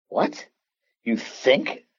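a sharp, high-pitched what, then doubting; retelling his stunned disbelief at the doctor; incredulous. Retold or imitated. Incredulous reply to doctor's hedge.

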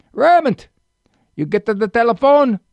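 high, loud Italian grandfather calling Raymond; Italian accent. Retold or imitated. Grandfather calls grandson to the phone in a loud Italian accent. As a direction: call out like an old Italian papa. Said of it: "he just had the Italian accent".

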